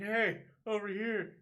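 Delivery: high, loud, drawn-out mock hail; calling out. Kid flagging down a Jeep, imitated high calling-out. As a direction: call out slowly to someone down the road.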